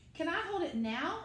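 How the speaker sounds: lightly voiced small boy begging to hold the kite; little Sam's voice. Sam asks again.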